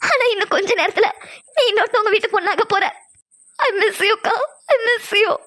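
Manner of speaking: tearful sisterly farewell. Acted. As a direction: choke up gently while saying goodbye to a sister. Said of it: "தயவு செஞ்சு அழுகாத".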